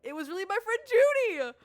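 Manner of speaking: excited high voice. Acted. Recognizing her old friend, high excited squeal. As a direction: squeal it with joy at the discovery. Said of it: "My voice raised in pitch and speed".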